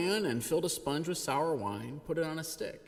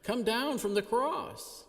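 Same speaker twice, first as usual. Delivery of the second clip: louder, higher jeering at a dying man; mocking taunt; 4 semitones higher, 6 dB louder than usual. A narrator's reading. Passersby jeering at the crucified Jesus, loud mocking. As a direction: sneer it like a scoffing passerby. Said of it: "derided him".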